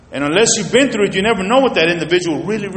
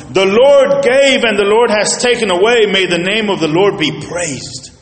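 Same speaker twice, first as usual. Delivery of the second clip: slightly louder firm praise; faith talking; 3 semitones higher, 4 dB louder than usual. Retold or imitated. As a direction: speak it with steady faith. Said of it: "faith talking right here".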